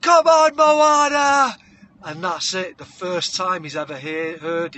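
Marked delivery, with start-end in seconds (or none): 0.0-1.6 high, full-voiced cheer from the crowd; loud, urgent rallying cry; dad's shout. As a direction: yell encouragement across an arena. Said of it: "And he goes".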